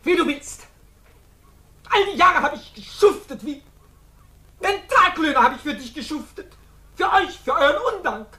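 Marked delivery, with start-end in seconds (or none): 1.9-8.3 bitter tirade. Acted. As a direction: spit out years of resentment.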